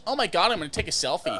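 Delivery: fast, lightly voiced valley girl; gushing valley girl, rushed. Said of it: "It sounds too valley girlish".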